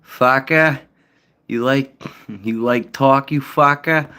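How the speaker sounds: high, mock South Shore Boston taunt; Boston tough guy. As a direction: sneer it like a Southie hothead.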